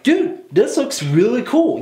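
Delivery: high-pitched, drawn-out retold enthusiasm; mock excitement. Podcaster recalls starting a new anime, high mock excitement. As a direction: replay an eager first impression, pitched well up. Retelling his first eager reaction.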